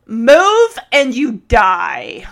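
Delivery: loud, slow mock warning, each word spaced; slow threat. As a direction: threaten them slowly, half joking. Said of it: "Kate's like".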